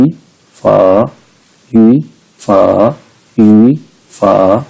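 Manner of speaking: ई rising as second tone, फा dipping third tone; third tone turned second. Shown as a demonstration. Teacher giving students another example, ई rising before dipping फा. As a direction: slowly lift ई upward, then dip फा. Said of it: "ऐसे ही आप देखें".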